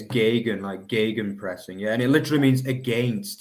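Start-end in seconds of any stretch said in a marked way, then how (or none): 0.0-1.8 "gegen" as GAY-gun, both g's hard; correct German pronunciation. Shown as a demonstration. Host showing co-host the correct German pronunciation. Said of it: "the correct way to say it is".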